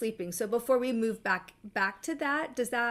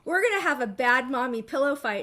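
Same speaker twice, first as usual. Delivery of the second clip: lightly voiced frustrated kids, louder; a mild mock protest, pushed louder; 3 semitones higher, 5 dB louder than usual. Kids challenging mommy to a pillow fight, mildly frustrated. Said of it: "they were really frustrated with me".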